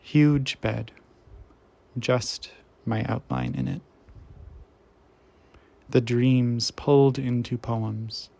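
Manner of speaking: measured poetry recital, firm attack easing off; poem reading. Acted. Reader sharing a beloved poet's work, measured poem recital. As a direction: read each image out with deliberate pauses.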